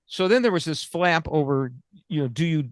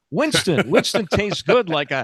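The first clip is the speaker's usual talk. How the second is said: chipper 1950s ad; 4 dB louder than usual. Retold or imitated. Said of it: "let's now go cigarettes".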